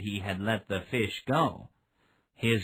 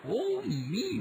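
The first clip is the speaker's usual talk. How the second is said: exclaiming. A narrator's reading. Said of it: "the old man exclaimed".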